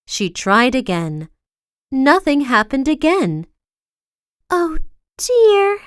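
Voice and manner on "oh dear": miserable. A narrator's reading. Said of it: "she thought miserably".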